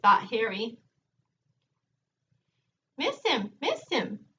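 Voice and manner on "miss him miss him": lightly voiced parrot, a bit higher; a hint of a talking bird. Parrot speaks in story.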